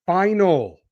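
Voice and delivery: "final" set apart and punched; stress on final. Real, not acted. Host teasing Cena's last opponent, stress on "final".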